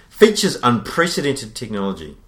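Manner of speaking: slow, deliberate ad-copy read; product blurb reading. Acted. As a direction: read it like a dramatic product promo. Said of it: "I'm gonna try and read this".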